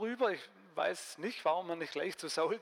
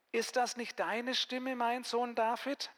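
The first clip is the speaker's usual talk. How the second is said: calling out; 5 semitones higher, slower than usual. Acted. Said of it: "erkannte ihn Saul an der Stimme und rief".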